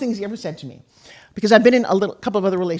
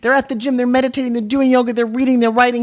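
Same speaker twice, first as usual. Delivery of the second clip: higher and louder, hammed-up preachy list; mock lecturing; 6 semitones higher, 8 dB louder than usual. Wife retells hounding her sleepy husband, mock lecturing loud. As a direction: rattle off the list like a pushy life coach.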